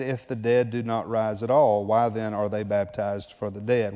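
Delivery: slow, deliberate scripture reading; unhurried verse read-aloud. Shown as a demonstration. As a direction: read the verse slowly, word by word. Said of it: "we'll slow it down here".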